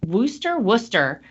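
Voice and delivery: "Worcester" said WUSS-ter twice; the two "Worcester" takes as WOOS-ter; pronunciation demo. Shown as a demonstration. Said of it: "it's Worcester or".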